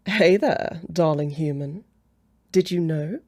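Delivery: coy come-on; flirty pickup line. Acted. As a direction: try out a seductive line. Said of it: "Let me try another one".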